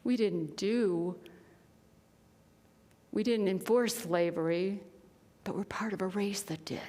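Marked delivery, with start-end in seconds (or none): 5.4-6.8 quick, voiceless admission; a hushed, faster confession; whisper. Real, not acted. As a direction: let the confession fall to a whisper. Confession of shared guilt.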